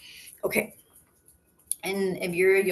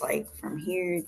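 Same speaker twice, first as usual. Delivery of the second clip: whispered; 5 dB quieter, slower than usual. Real, not acted. Instructor drops into a whisper.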